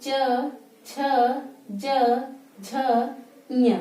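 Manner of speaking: च छ ज झ ञ said with the tongue on the palate; teacher modelling for repetition; 1 palatal letter demo. Shown as a demonstration. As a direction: recite each palatal clearly. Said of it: "मेरे साथ बोले".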